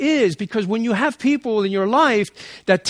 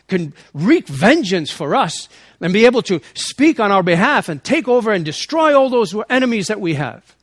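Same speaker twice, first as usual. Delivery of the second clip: crowd demanding power; 4 dB louder than usual. Pretend. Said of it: "And I imagine him saying".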